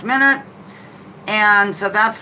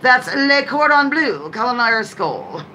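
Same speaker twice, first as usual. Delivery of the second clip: put-on French accent with Southern twang; 3 semitones higher than usual. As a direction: lightly ham up the French, then let a Southern lilt slip in. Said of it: "a little French accent with Southern thrown in".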